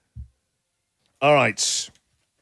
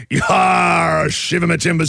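pirate voice. Pretend. Pirate catchphrase.

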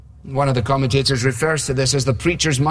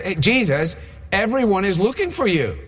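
higher-pitched mock reproach, falling at the end; veiled condemnation; 7 semitones higher than usual. Disciples find Jesus praying alone, with veiled condemnation. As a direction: act out a veiled telling-off in a raised pitch. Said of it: "also a veiled condemnation".

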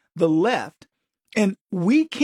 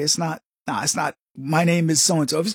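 polite correction; 4 semitones lower than usual. Retold or imitated. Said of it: "correct them politely and say".

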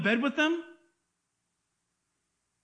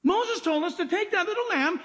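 higher, incredulous "What? The Lamb of God?"; mock disbelief; 7 semitones higher than usual. Preacher imitates a puzzled Jewish listener, higher and disbelieving. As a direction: sound baffled, then sure. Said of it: "The Jewish mind would say".

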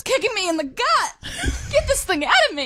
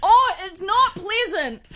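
slow, strained words through pain; groaning in pain; much slower than usual. Real, not acted. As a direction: drag it out through the ache. Strong contraction simulated.

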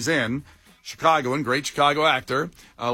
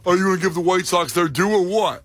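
light annoying-guy voice; 3 semitones higher than usual. Retold or imitated. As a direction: lay on the annoying tone. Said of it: "I take all caps as annoying voice".

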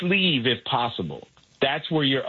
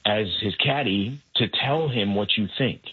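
angel on shoulder; 5 semitones lower than usual. Retold or imitated. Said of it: "I got the angel on the other side going".

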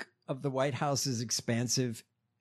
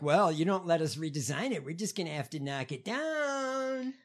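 mob threat; 4 dB quieter than usual. Retold or imitated. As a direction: lightly play a mobster making a veiled threat. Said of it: "it's a mob threat".

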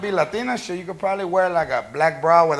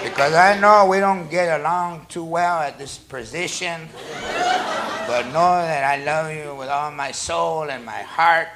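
put-on slow, soft drunk declaration; slurry drunk love vow; drunk romantic; 4 dB quieter, slower than usual. Drunk love speech to girlfriend.

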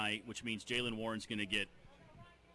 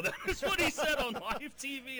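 laughing; 13 semitones higher, 4 dB louder than usual. Real, not acted. Laughing while retelling quote.

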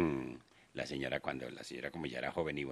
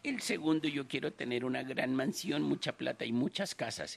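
put-on old lady voice; 9 semitones higher than usual.

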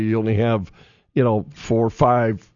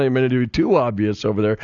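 normal talking voice

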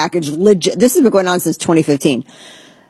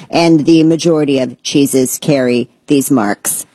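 robot voice; 3 semitones lower than usual. Acted. Explaining cheese science to viewers in a mild robot voice. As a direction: read the science dryly like a machine. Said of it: "say it in a robot voice because it's just very dry".

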